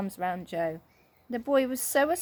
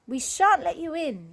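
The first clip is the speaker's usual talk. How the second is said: louder, higher shout; defiant yell; 7 semitones higher, 5 dB louder than usual. A narrator's reading. Joe defying bears at the door, shouting. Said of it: "yelled Joe".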